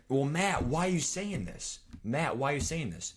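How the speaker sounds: a hint of a nagging viewer; lightly voiced chatter pestering him; whiny chat. Mimicking chat whining at him.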